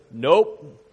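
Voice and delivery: lightly voiced parrot, drawn out; a hint of a deadpan bird repeating its call; slow, lightly acted bird reply; talking parrot. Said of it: "And the bird goes".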